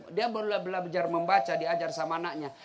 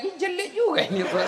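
mock unspoken remark; 8 semitones higher than usual. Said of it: "ndak mau bilang-bilang".

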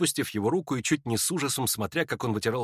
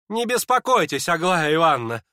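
calm reply; 5 semitones higher, 5 dB louder than usual. Acted. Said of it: "спокойно отвечал Ипполит".

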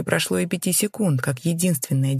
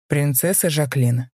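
slow, low and scornful; a contemptuous knight saying her name. A narrator's reading. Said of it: "лишь низким голосом произнёс". (низким голосом, с презрением)

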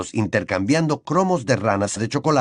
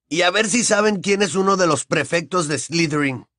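weary question; 8 semitones higher than usual. A narrator's reading. Ron asks tiredly.

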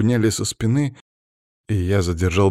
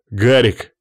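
loud nervous bark of a name; loud nervous shout; 3 semitones higher, 7 dB louder than usual. A narrator's reading. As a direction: snap the name out loud and tense. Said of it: "нервно рявкнул я".

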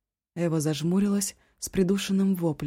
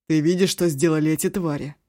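сквозь зубы; 5 dB louder than usual. Acted. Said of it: "Сквозь зубы сказал".

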